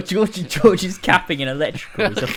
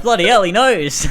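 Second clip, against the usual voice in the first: raised, louder mock Aussie voice; impressed Australian lads; 4 semitones higher, 5 dB louder than usual. Imagined lads admiring the visitor's slang, mock impressed. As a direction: impersonate an astonished Australian lad. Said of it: "they're gonna be like".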